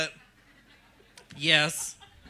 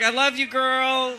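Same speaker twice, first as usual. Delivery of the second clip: slow polite brush-off; 4 semitones higher, 4 dB louder, slower than usual. Retold or imitated. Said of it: "I was like".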